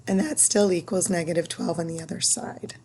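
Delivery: losing her voice, barely voiced; raspy whisper. Real, not acted. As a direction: voice giving out to a whisper. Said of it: "I keep losing it".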